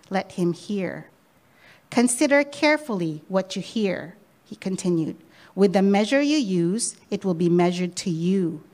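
measured, even Bible reading voice; scripture reading. Acted. Preacher reading scripture to the congregation, measured. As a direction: read the passage steadily to the congregation. Reads scripture passage aloud.

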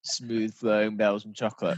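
imitating a sultry food advert; lightly sensual voiceover, savouring the words. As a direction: tempt them with a luxurious ad read. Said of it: "like, an extremely sensual voice".

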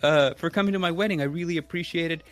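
the groom thanking him, gushing; eager groom. Retold or imitated. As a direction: gush thanks like an overeager new in-law. Groom's eager thanks, voiced high.

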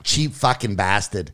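barely Scottish, slow; hammed-up Scottish jab, slowly; bad Scottish accent. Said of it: "No, that's not even close".

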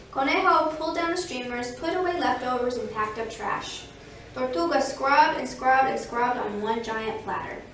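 lively picture-book reading; story narration. A narrator's reading. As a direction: read it clearly to young children. Reads a picture book aloud.

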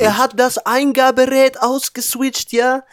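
squeaky incredulous echo; high-pitched teasing repeat; mock high voice. Mocking the laptop excuse.

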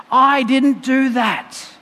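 slow, emphatic denial; acted protest, drawn out word by word; annoyed. God answering those who blame him, annoyed and emphatic. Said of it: "I think he gets annoyed".

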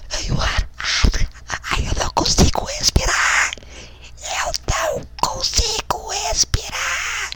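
breathless wheezing whisper; straining for every breath, voice nearly gone; gasping for air. Acted. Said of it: "Achou que era só a escada que fazia tu faltar ar".

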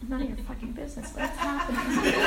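laughing through the words. Real, not acted. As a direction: break into a chuckle mid-line.

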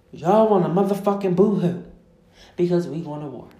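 loud, scolding jab at the crybabies; exasperated rant. Real, not acted. Podcaster scolding Americans afraid of war, loud exasperation. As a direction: belt it out, dropping off at the end. Angry rant, first take.

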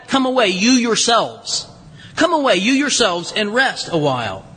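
deliberate, insistent "Come away, you yourselves"; emphatic. Shown as a demonstration. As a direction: lean firmly on "you yourselves", easing down afterwards. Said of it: "is actually more emphatic".

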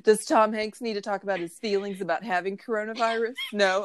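lightly acted hopeful offer; mock helpful offer. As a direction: tentatively ask around, playing at being useful. Plays along offering useless help.

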